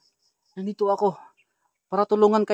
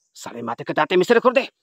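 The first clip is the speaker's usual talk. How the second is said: incantation. Real, not acted. Healer casts a short oration at the possessed, rising incantation. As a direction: build the ritual formula upward to a sharp end.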